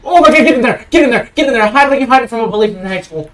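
loud, high, urgent yell; panicked shouting. Real, not acted. Player urging the character into hiding, panicked shout. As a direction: shout it fast as if chased.

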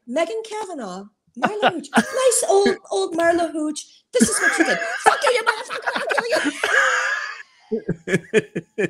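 mock heckle rant. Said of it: "you could say".

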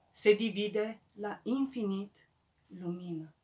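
measured recital, a pause after each verse; poetry recital. Acted. Poet reading from a new volume to friends, measured recital. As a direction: recite verse by verse, weighting the repeated phrases.

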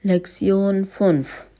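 Lektion fünf said in clear German; "लेक्सियन फ़ुन्फ़" spoken as German Lektion fünf, ü rounded; German lesson title. Shown as a demonstration. Teacher announcing the lesson title in German, carefully pronounced. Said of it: "start करते हैं अपना lesson number five".

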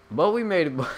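loud, high "we made it"; triumphant shout. Real, not acted. Gamer cheering as he pulls up, loud and high.

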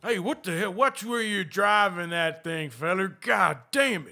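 gruff cowboy talk from the frontier; Arthur Morgan. Acted. Plays Arthur Morgan in-game.

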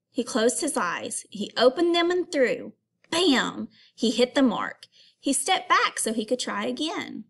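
lively read-aloud storytelling; story reading. Acted. Teacher reading a picture book aloud to students. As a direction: read the story to the class with expression.

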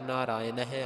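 ਨਾਰਾਇਣ ਹੈ ending in an audible "-neh"; final "neh" sounded. Shown as a demonstration. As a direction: close ਨਾਰਾਇਣ ਹੈ on a light breathed h, "naraa-i-neh". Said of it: "ਨਹਿ ਲਗਾ ਕਰਕੇ ਪਾਠ".

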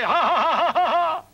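gleeful laugh. Acted. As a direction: gloat and laugh it up. Villain gloats at party.

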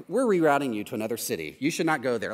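lightly voiced sat-nav, low and quick; GPS navigation voice. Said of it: "Waze, what's the direction of this address?".

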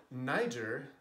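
Niger as French nee-ZHAIR; French pronunciation. Shown as a demonstration. Explaining when Niger gets its French name, French pronunciation. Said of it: "complete conversation in French".

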